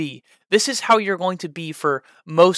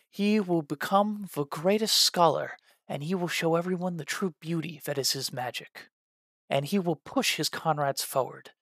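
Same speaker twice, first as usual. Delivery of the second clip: reserved; 6 dB quieter than usual. Shown as a demonstration. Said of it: "a little bit more reserved".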